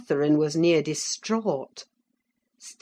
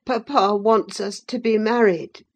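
put-on a touch higher, fretful boy; lightly voiced sickly boy; 5 semitones higher, 5 dB louder than usual. A narrator's reading. Linton telling Catherine his papa's plan, a little petulant. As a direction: explain it matter-of-factly. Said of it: "he continued".

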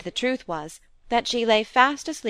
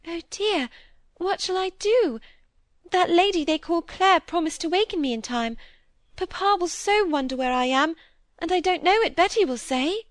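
put-on high, tearful little girl; a child about to cry, lost; distressed child; 10 semitones higher than usual. A narrator's reading. Molly fretting to the maids, high and tearful.

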